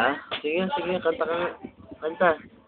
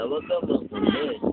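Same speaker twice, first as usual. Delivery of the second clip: put-on baby talk; 13 semitones higher than usual. Parent coaxing baby.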